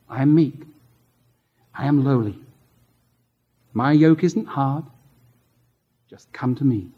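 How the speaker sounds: low, hushed closing words. Acted. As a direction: ease the congregation into peace.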